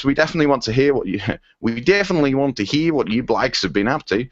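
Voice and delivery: lightly put-on Australian accent; comic stab at an Australian voice. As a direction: attempt a silly Aussie accent. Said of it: "can't get this Australian accent right".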